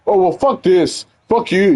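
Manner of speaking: high-pitched imitation of a tearful outburst; mock crying tantrum. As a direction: mimic a coworker throwing a mild tantrum. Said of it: "he starts crying saying".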